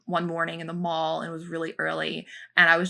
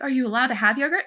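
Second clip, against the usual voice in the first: put-on higher, quick voice for a little kid; talking to a child; 6 semitones higher, 3 dB louder, faster than usual. Asking a little child about yogurt, higher kid-friendly voice. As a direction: raise the pitch to address a small child.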